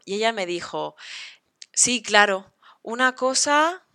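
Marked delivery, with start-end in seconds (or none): 1.7-3.9 loud sarcastic sí claro with a slow rising una cosa; mock the idea, sarcastically; sarcastic friend, slow una cosa; ironic. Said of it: "Estaba siendo irónica".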